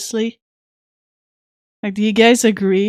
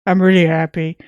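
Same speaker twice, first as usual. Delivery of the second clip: louder, brighter "I'm really happy"; 6 dB louder than usual. Real, not acted. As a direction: push real joy into it. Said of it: "I hope you can hear the smile in my voice".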